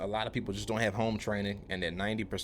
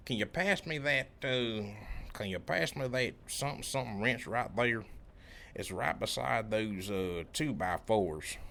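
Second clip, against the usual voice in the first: put-on deep country accent; 2 semitones higher than usual. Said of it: "I'm talking deep country".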